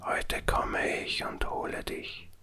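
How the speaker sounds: slow, breathless eerie whisper. Acted. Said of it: "dazu eine flüsternde Stimme".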